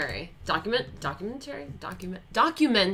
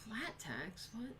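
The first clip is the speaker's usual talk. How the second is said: breathy whisper, far softer; whispered puzzlement; 19 dB quieter than usual. Real, not acted. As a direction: whisper "The flat tax?" in confusion. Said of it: "puzzled reply".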